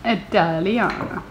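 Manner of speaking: put-on slow, lightly Italian-accented echo; imitated Italian accent. Mom echoing the child, mild Italian accent. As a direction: draw it out with a mock Italian accent.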